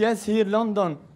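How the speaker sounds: very slow, patient laughing reply; policeman voice. Retold or imitated. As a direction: repeat it back slowly and patiently. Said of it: "قالت لها البوليس". (شرطي يكرر ببطء)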